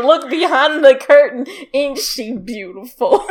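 hammed-up British showman; mock British accent. Showman unveiling a mermaid to a crowd, mock British accent. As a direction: pitch the exhibit in put-on British. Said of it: "This is my British accent, by the way".

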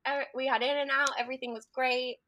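high, airy, casual reassurance; breezy husband. Retold or imitated. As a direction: brush it off cheerfully. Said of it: "he's like".

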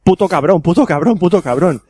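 string of manga curses, building; cursing under breath. Shown as a demonstration. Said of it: "los números de mierda".

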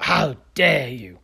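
slow mock outrage, drawn out; hammed-up but understated indignant scold; Greta's how dare you. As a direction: mimic a scolding activist, slowly. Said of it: "He Greta".

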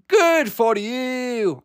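very slow, high-pitched mock-accent yell; hammed-up imitation of an angry star; Christian Bale. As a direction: stretch each word out, pitched high, in a fake accent. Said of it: "and then Christian Bale goes".

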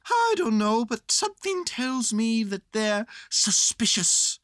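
high, loud bear voice, slowing; Winnie the Pooh. Acted. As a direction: call down a slow, high warning.

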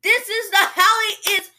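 high, drawn-out cheering slogan; gang cheer. Pretend. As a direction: proclaim it high like a rallying cry.

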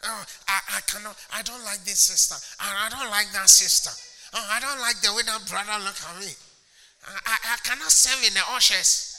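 mock complaining member. Preacher imitating a complaining member, light whine. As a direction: grumble like a picky churchgoer.

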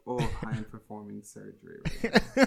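talking through clenched teeth. Real, not acted. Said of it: "He's really clenching his teeth".

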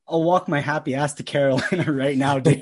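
laughing through an excited promise. Retold or imitated. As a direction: giggle it out, loud and thrilled. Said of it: "the kid's still freaking out".

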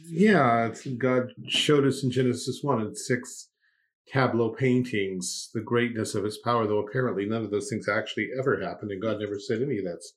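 dry mocking sarcasm; mock the idea sarcastically; sarcastic. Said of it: "okay, enough of the sarcasm".

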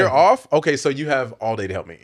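playful African-accented dad impression. Guest imitates his dad calling for help, in a light African accent. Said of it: "please give me that full African accent".

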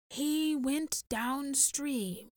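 put-on slow, grave old man; solemn and unhurried. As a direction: weigh each word heavily. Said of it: "said Alwa gravely".

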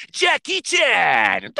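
unveiling his pick with slow showman hype; grand announcement. Real, not acted. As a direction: announce the name like a ring announcer.

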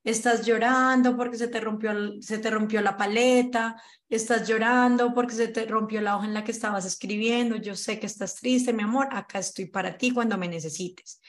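calm, tender reassurance to a little one; gentle comforting parent. Shown as a demonstration. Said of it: "acompañar y validar la emoción". (madre consolando a su hijo que llora, con ternura)

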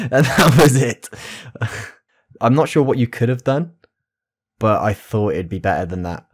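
ordinary delivery

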